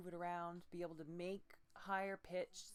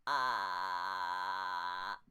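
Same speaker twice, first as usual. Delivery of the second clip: low, loud clenched croak from a bit higher in the throat; tight throat croak; 10 semitones lower, 11 dB louder than usual. Shown as a demonstration. Coach demos a tight croak placed a little higher in the throat. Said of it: "That one was a little higher in my throat".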